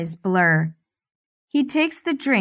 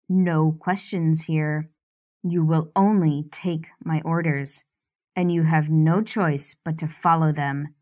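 lightly lowered, controlling man's voice; domineering man; 4 semitones lower than usual. Acted. Stefan gives orders.

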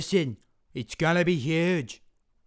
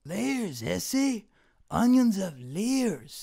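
Mexican Shrek; 3 semitones higher, much slower than usual. Retold or imitated. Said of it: "Mexican Shrek".

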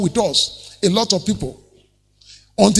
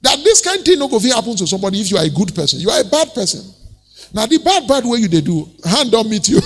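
fast, mocking accusation building higher; accusing; 3 semitones higher, faster than usual. Job's friends begin to mock and accuse him, accusing. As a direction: point the finger, scolding in a raised pitch. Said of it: "They begin to accuse him".

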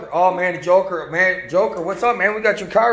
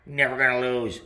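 gloating Joker; 8 semitones lower than usual. Acted. Joker answers.

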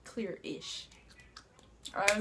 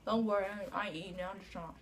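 cheeks stuffed full; 2 semitones lower, 6 dB quieter, faster than usual. Real, not acted. Many marshmallows in mouth.

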